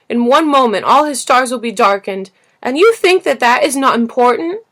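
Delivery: loud, high, near tears; a hurt child pleading for his flower; loud and high, anger turning to grief; impassioned plea. Acted. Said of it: "His face turned from white to red".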